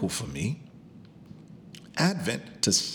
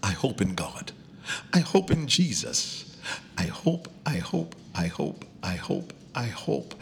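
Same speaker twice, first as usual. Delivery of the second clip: demo declaration; 3 semitones lower than usual. Shown as a demonstration. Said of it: "you gotta say it".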